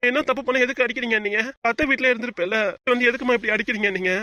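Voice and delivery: upset protest. Acted. Child protests to mother about being hit, upset. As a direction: demand to know why, hurt and indignant.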